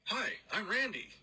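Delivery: high-pitched imitation of a friend's dad; retold friendly greeting. Coworker's dad introduces himself to the roommate, mock friendly. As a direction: chirp an introduction as somebody else's dad. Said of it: "walks up to my roommate, Mark, and says".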